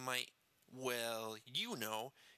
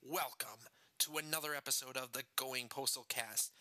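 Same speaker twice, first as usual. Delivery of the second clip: ringmaster. Acted. Circus-style show opening.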